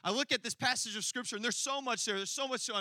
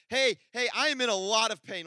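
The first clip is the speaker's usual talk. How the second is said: louder mock plea on the phone; louder mock plea of pain; louder hurting plea; 3 semitones higher, 5 dB louder than usual. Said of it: "and I said".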